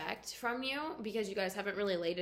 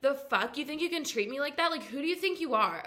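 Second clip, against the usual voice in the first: higher, indignant telling-off; mock confrontation; 4 semitones higher than usual. Islander confronting guy who hooked up elsewhere, mock indignant. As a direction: play at putting someone in their place.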